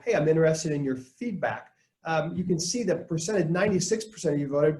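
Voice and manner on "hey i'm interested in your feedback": light, friendly ask for input; a friendly request for feedback; interested, inviting. Shown as a demonstration. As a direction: invite them in warmly. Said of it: "right into".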